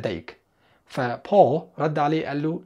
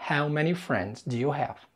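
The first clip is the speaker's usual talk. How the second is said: slow model sentence; 5 dB quieter, much slower than usual. Shown as a demonstration. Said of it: "كم العدد؟".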